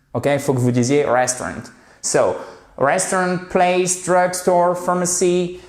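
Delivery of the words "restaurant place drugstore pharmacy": higher, clear model pronunciation of each word; careful model words. Shown as a demonstration. Teacher drilling learners on each word, higher and clear. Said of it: "je veux pas que vous vous trompiez au niveau prononciation".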